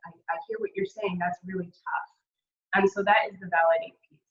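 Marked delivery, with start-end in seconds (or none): 0.1-2.1 soft and unhurried reassurance; softer, sincere validation; gentle validating. Shown as a demonstration. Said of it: "You say".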